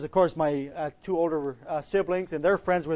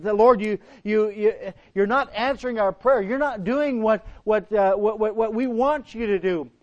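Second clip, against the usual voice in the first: higher-pitched, insistent plea; mild mock complaint; 3 semitones higher than usual. Mary and Martha complain to the Lord, mildly acted protest. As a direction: lightly act out a frustrated prayer.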